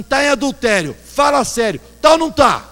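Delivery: high, loud, building accusation; mock accusing shout. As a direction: call him out in front of everyone. Baby confronting man loudly.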